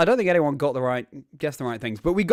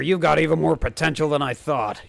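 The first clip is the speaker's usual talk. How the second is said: lightly voiced eager rival; bright, keen trainer girl, lightly played; Nemona voice. Nemona's post-battle line.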